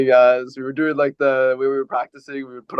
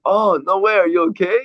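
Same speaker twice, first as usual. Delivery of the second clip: higher, louder concerned gasp, laughing; playing the sympathetic cashier, pitched up; mock concern; 6 semitones higher, 4 dB louder than usual. Cashier reacting to the knee-injury story, higher and concerned with a laugh. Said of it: "she's like".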